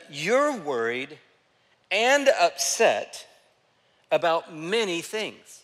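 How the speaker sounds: slow, deliberate, caring words; tender reading. Retold or imitated. Jesus answering worried Martha: slow, tender reading. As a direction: let each phrase land gently. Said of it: "This is the way he responds".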